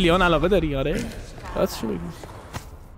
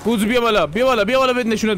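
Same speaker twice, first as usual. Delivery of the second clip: taunting call; 5 semitones higher than usual. Real, not acted. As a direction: egg them on to come up. Taunting enemies to come.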